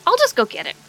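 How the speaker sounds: chirpy insistent youngster; wholesome 1950s kid. Acted. Kaleran NPC insists.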